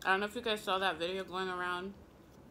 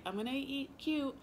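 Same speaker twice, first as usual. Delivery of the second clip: mocking dainty voice; 6 semitones higher, 4 dB quieter than usual. Mocking women in lipstick clip.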